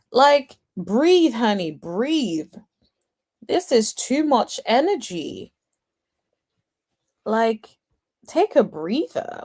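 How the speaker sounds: drawn-out, mock-exasperated appeal; stretched-out plea to settle down. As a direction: talk down an overexcited friend, stretching words. Imagined plea to calm the screamer.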